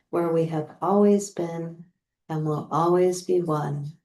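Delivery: reading a love letter tenderly; sweet nothings. Acted. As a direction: read it like whispering to a lover. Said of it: "So I'm going to read it".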